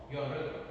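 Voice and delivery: "You are welcome" shortened to "you're welcome"; contracted short form. Shown as a demonstration. Teacher repeating the short form for students, "You are welcome" said contracted. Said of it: "It's short form".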